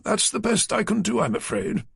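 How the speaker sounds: a prim, slightly pompous office man; publisher Naylor. A narrator's reading. Naylor's final offer.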